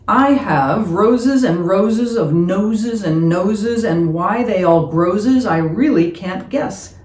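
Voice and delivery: lilting, playful nonsense-verse reading; comic poem recitation. Acted. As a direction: lean into the silly rhymes, stretching some line ends. Reads a comic nose poem.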